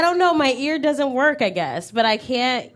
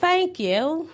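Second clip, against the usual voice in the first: British thank you; 3 semitones higher than usual. Shown as a demonstration. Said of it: "Now say, like".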